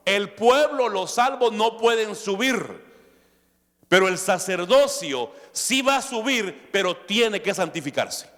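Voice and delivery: high-pitched, forceful decree; emphatic divine command. Acted. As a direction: lay down God's order to Moses forcefully. Preacher voices God commanding Moses.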